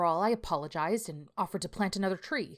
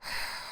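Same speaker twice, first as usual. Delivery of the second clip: heavy sigh; 4 dB quieter than usual. Acted. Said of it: "he sighed loudly".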